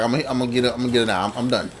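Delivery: under the breath, low and soft, retold determination; low, muttered resolve. Camp worker psyching up to charge the lion, low muttered resolve.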